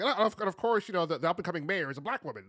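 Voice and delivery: mocking the YouTuber. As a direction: rattle it off in his smug tone. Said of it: "he's just like".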